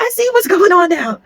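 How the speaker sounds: high, loud, laughing through the line; laughing mock quote. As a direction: crack up while quoting him. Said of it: "He was like".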